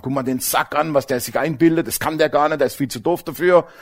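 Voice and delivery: gossiping colleagues. Retold or imitated. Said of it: "dass die sich alle aufgeregt haben".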